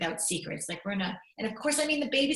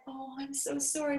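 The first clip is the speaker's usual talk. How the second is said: put-on high-pitched, tender quote of a girl; high, emotional apology; sympathetic daughter; 6 semitones higher than usual. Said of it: "she saw Bob's pain and said".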